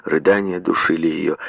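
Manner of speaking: ordinary delivery, nothing marked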